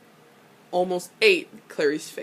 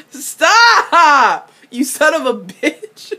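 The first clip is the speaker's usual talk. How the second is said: high laughing shout of stop; laughing protest; 6 semitones higher, 7 dB louder, much slower than usual. Real, not acted. Fan laughing at someone, high shouted stop. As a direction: squeal it through laughter.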